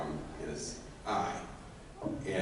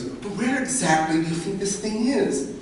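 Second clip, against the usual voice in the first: raised, high-pitched put-on voice; hammed-up questioning and confident reply; acted character exchange; 9 semitones higher, 5 dB louder than usual. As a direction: play it as comic back-and-forth. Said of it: "when Witherington goes".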